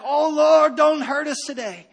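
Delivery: mock pleading with God, voice pushed up; cowering, begging prayer. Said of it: "just cowering and begging".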